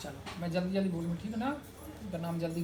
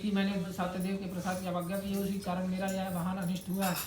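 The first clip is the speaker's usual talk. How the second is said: rapid, even-pitched katha reading; scripture recitation. Acted. Priest reading the Satyanarayan katha to worshippers, rapid recitation. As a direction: rattle through the sacred story. Reads the katha aloud in ritual.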